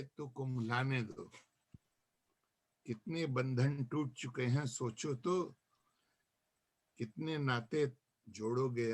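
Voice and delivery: measured verse, lines set apart by pauses; poem recitation. Acted. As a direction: let each refrain fall away at the end. Recites own nazm to gathering. (नज़्म का ठहर-ठहर कर पाठ)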